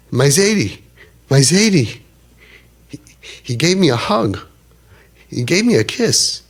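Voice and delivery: high, breathless excitement; a boy who can't contain himself; boy telling the teller his Zaidi hugged him, high and excited; excited grandson. Retold or imitated. Grandson excitedly reporting the hug.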